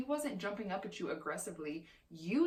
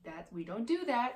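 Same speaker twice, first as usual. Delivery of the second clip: much higher, gentle sing-song correction; telling dog off gently; 7 semitones higher than usual. Shown as a demonstration. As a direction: coax the dog down, kindly. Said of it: "put him back down and say".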